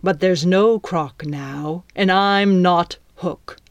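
slow, deliberate pirate threat; menacing. Acted. Captain stares down his captive, slow and menacing. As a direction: spell out the threat word by word.

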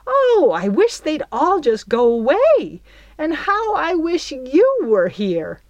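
high, loud wail of complaint. A narrator's reading. Belle wailing to absent Peter about the girls. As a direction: pour out the grievance to Peter.

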